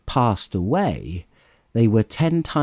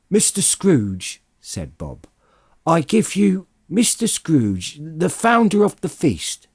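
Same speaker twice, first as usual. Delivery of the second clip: Bob proposing a toast, higher and bright-voiced; cheerful toast; 7 semitones higher than usual. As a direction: raise the glass to the master.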